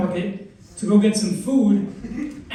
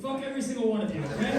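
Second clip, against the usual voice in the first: quiet mock curse; 10 dB quieter, faster than usual. Mock hostility at weed smokers.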